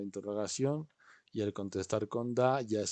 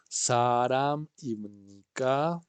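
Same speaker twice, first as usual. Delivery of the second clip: slow model phrase; 2 semitones higher, 4 dB louder, much slower than usual. Shown as a demonstration. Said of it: "teacher models for repeat".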